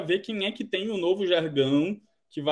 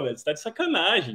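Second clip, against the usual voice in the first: normal talking voice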